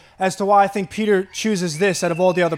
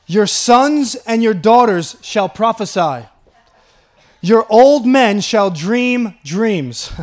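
scripture reading; 4 dB louder than usual. Acted. Reads scripture aloud with force.

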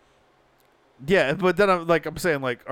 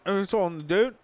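put-on Australian accent. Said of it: "I'm Australian".

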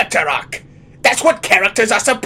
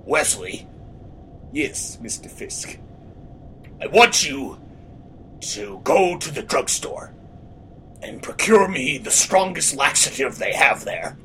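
Fisk impression; 3 semitones lower, 4 dB quieter than usual. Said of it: "That's why I sound like this".

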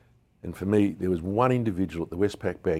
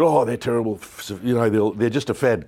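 dismissive scoff; 5 semitones higher, 7 dB louder than usual. Retold or imitated. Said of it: "And he said".

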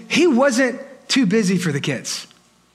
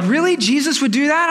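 disbelieving listener; 4 semitones higher than usual. Acted. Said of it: "some of you are like".

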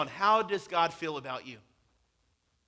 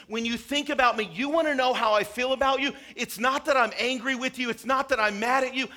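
louder, higher, earnest plea; passionate appeal; 5 semitones higher, 4 dB louder than usual. Acted. God telling his people he longs to be near them, in a raised earnest voice. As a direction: build it into a heartfelt appeal.

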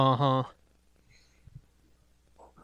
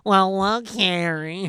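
put-on drunk broad voice; slower than usual. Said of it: "that's exactly how in all of those old shows and movies they sound like".

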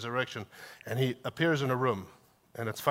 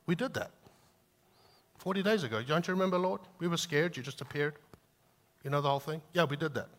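higher, puzzled, half-mocking disciples; confused disciples; 3 semitones higher than usual. Pastor voices disciples answering Jesus, lightly mock baffled and higher. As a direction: play the baffled disciples reminding the Lord. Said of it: "And they're like".

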